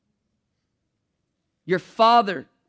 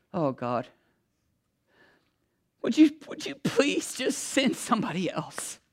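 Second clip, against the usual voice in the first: a hint of a meek, pleading Moses; 2 semitones higher, 5 dB quieter than usual. Moses begging God to send someone else, meek plea. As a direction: beg to be let off, small and unsure.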